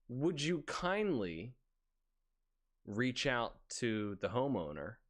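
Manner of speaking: slow, drawn-out would you kindly; slow polite request. Retold or imitated. Coworker typing to dispatch, slow and overly polite. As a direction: lean on each word like a game villain's request. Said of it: "Then what I do is I go".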